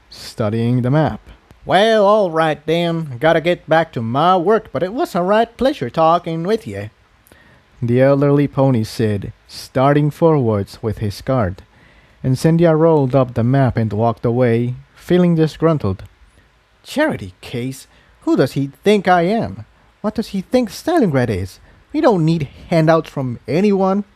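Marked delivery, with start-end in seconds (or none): 1.7-6.9 lightly voiced elderly country pony, a bit higher; folksy old pony giving friendly advice; old earth pony. Old pony pointing a refugee to food, lightly voiced. 16.8-24.0 offended mare grumbling to herself, higher; disgruntled. Acted. Refugee mare muttering after the old pony, disgruntled. Incendia fumes alone.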